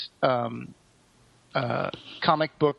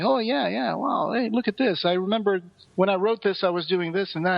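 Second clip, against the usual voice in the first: excited retold quote; 6 semitones higher than usual. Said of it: "he was like".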